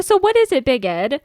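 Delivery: mock challenge. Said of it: "I'm like".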